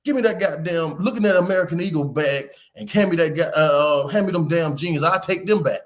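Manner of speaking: retold fed-up dad giving orders; pissed off. Dad demands the shopping bag from his daughter, pissed. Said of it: "I'm, I'm pissed".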